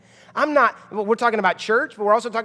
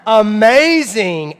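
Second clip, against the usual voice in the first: put-on slow, loud, gushing over the girls; gushing proud dad; 6 dB louder, much slower than usual. Dad bragging about his daughters, slow loud gush. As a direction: drag out amazing with pride. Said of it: "I'm like".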